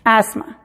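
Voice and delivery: "Asma" said az-ma, no t or h; teacher model; silent th. Shown as a demonstration. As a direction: demo "Asma" as if no th. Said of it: "es muda en la palabra asma".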